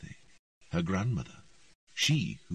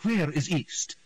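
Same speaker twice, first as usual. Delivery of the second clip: louder, higher stern question; stern demand; 10 semitones higher, 4 dB louder, slower than usual. A narrator's reading. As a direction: demand an answer sharply. Queen demands.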